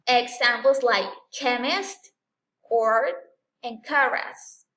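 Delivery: "chemist", "court", "chorus" with a hard k. Shown as a demonstration. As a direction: hit the ch as a clean k. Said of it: "se comporta como una K".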